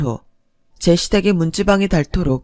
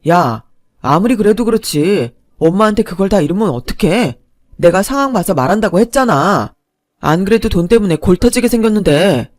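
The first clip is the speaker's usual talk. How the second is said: arguing husband; 4 dB louder than usual. Acted. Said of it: "제게 따지듯 말했어요".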